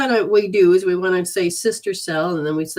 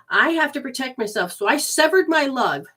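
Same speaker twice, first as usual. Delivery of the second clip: higher, pleading inner voice; a hint of hurt self-protection; lightly voiced wounded inner part; voicing the body; 6 semitones higher, 3 dB louder than usual. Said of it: "show it is trying to say".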